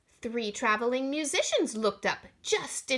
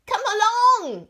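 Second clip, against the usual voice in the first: chortling; 10 semitones higher, 10 dB louder than usual. Acted. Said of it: "Klondike Bertha chortled".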